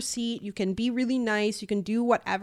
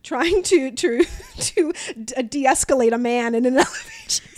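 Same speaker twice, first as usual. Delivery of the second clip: mock self-scolding; 3 semitones higher, 4 dB louder than usual. Mock self-scolding about the elevator story.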